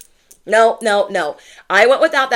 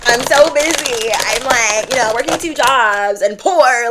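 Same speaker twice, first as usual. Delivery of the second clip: mock busy; 4 semitones higher, 3 dB louder than usual. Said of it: "trying to pretend like I'm not".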